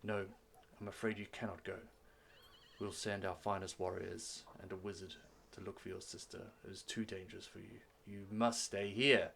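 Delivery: soft, measured refusal, firm at the end; stern father. Acted. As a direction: quietly lay down the law as a father. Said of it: "the father's like".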